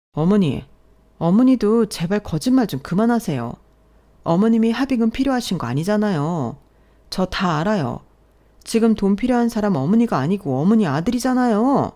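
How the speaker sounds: lightly voiced accusing wife; exasperated wife. Wife exposes mother-in-law's lie, exasperated.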